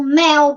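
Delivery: MEL as a single beat; one syllable. Shown as a demonstration. Teacher shows it is one unit, one syllable. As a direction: say MEL in one piece, unbroken. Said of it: "entender que é uma coisa só".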